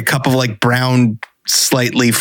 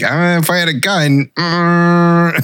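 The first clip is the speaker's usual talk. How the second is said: half-joking threat, pitched up; menacing hint; 6 semitones higher, much slower than usual. Retold or imitated. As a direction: tease a veiled threat with a grin. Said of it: "I'm like".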